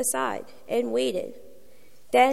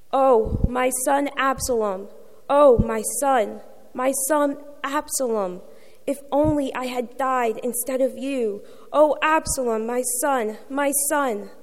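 grieving cry; 2 semitones higher, 4 dB louder than usual. Acted. The king mourning his son Absalom, lamenting cry. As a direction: read as a lament, louder on each oh. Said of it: "went up to the room over the gate and cried".

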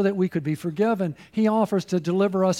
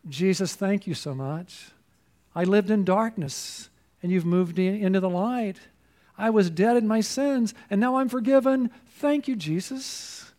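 heartfelt prayer. Real, not acted. Spontaneous prayer of thanks.

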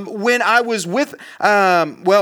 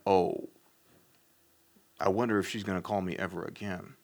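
much softer and lower, a dejected mutter to himself; worried mutter; 13 semitones lower, 14 dB quieter than usual. Retold or imitated. Alone after the call, doubting she will call, softly and lower. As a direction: sink into it, hoping no one hears. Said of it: "And I went".

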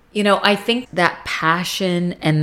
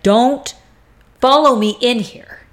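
higher-pitched, firm command; mock-stern, with a break after the first word; retold warning; 5 semitones higher than usual. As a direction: imitate a woman warding off her ex.

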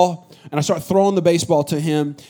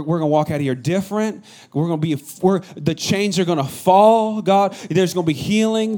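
fervent prayer building in faith. Acted. Pastor praying over the congregation, fervent. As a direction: pray it over the church with rising conviction.

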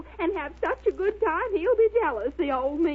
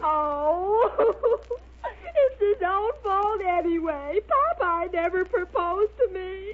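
1 crying. Acted. Olive upset over Popeye.

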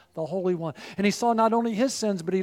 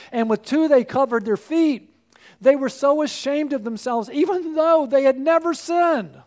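climbing higher and louder toward the climax; rising preacher intensity; 4 semitones higher, 6 dB louder than usual. Acted. Preacher to congregation, building in awe.

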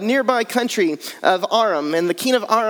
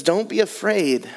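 calm reassurance. Acted. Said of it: "the prophet answered".

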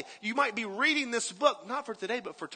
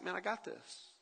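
calm reassurance; 13 dB quieter than usual. Retold or imitated. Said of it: "he is calm".

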